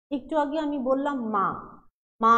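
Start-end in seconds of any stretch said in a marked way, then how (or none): 2.2-2.3 মা held long on the open vowel; drawn-out vowel. Shown as a demonstration. Teacher holds an open syllable to show it can be stretched. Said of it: "আমি যতক্ষণ ইচ্ছা চেঁচাতে পারছি".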